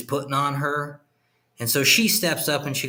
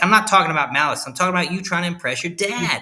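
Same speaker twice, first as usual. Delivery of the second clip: put-on exasperated girlfriend; 5 semitones higher, 4 dB louder, faster than usual. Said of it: "And she's like".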